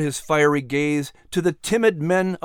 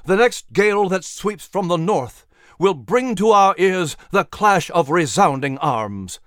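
raised then slowing; prophetic oration; 4 semitones higher, 3 dB louder than usual. Acted. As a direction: foretell war to the hall. Patrick's oration.

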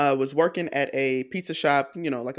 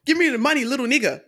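high, loud mock Ghanaian accent; hammed-up fake Ghanaian stick-up demand, pitched high; Michael Blackson accent; 8 semitones higher, 5 dB louder, much faster than usual. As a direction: parody a comic's put-on Ghanaian accent. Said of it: "the Michael Blackson shtick that he does".

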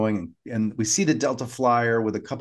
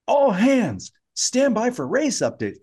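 horse race announcer; 11 semitones higher than usual. Retold or imitated. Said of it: "He starts to sound like a horse race announcer".

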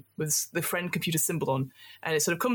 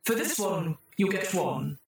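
the computer rewarding the troubleshooters, in a chirpy synthetic voice; cheery computer voice. Acted. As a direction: sing out the congratulations like a cheerful machine.

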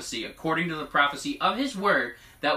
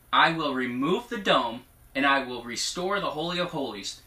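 prophetic proclamation. Acted. Relaying God's promise to the congregation, prophetic proclamation. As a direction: proclaim it as a solemn vow.

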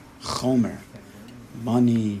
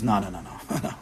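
stubborn chomer voice; 4 semitones lower, faster than usual. Acted. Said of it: "And the chomer says".

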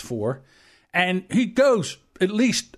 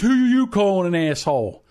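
a touch raised, confronting; mock angry challenge; 3 semitones higher, 3 dB louder than usual. Big drunk man confronts a helper over an insult, mock angry. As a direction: imitate a drunk man's belligerent challenge.

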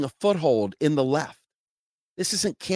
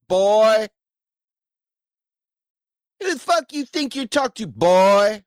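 higher, louder menacing redneck bellow; belligerent drunk; 5 semitones higher, 3 dB louder than usual. Acted. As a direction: threaten him like a mean drunk. Voicing a belligerent libertarian threatening.

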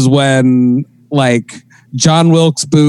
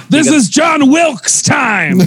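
high, slow, laughing announcer voice; 11 semitones higher, slower than usual. Pretend. Comedian laughing as a fake announcer. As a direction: belt it out while cracking up.

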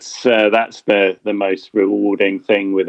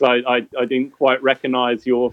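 breaking into laughter while retelling; amused, laughing. Real, not acted. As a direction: let the laugh take over by the end. Amused retelling of girlfriend's remark.

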